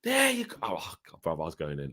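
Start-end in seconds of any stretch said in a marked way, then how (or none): 0.0-0.6 high, mocking remark; sarcastic jab. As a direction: say it with bitter sarcasm. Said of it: "And I went".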